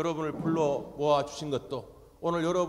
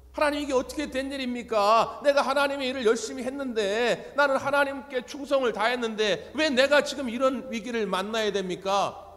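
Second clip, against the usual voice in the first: higher, louder exasperated protest; irritated complaint; 6 semitones higher, 5 dB louder than usual. Acted. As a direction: complain to God as if fed up. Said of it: "짜증내듯이 하는 말이죠".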